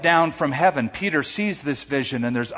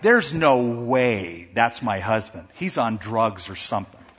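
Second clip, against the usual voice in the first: suspicious wife; 5 semitones lower than usual. Acted. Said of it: "his wife became so suspicious".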